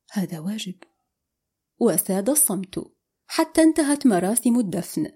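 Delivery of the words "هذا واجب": soft, hushed calm. A narrator's reading. He replies to her thanks at the burial, calm. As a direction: answer quietly and gently. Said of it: "قال بهدوء".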